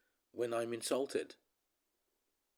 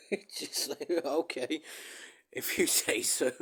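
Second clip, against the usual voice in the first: sarcastic; 6 semitones higher, 4 dB louder than usual. Real, not acted. Mocking the accusers.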